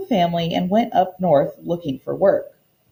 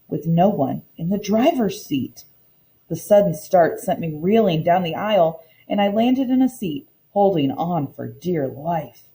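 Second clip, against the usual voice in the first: expressive read-aloud storytelling for a class; story narration. A narrator's reading. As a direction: read the picture book aloud to the children, lively. Teacher reads storybook aloud.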